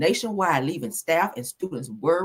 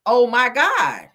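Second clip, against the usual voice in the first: shocked gasp; 7 semitones higher, 7 dB louder, much slower than usual. Real, not acted. Reacting to shocking news story.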